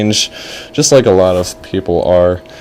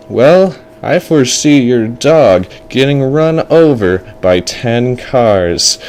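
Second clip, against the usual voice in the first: drawn-out prophecy of doom; ominous fortune teller; 2 semitones higher than usual. Acted. Fortune teller threatens the boy's dog, ominously drawn out. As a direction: stretch the threat like a seer. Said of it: "And the fortune teller is like".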